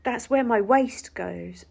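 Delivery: slow, loud, each word spelled out; slow exasperated explaining. Retold or imitated. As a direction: explain it slowly as if to a child.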